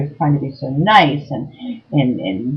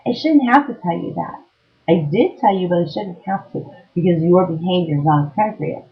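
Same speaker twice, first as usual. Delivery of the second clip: tearful retort. Retold or imitated. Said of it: "I'm like".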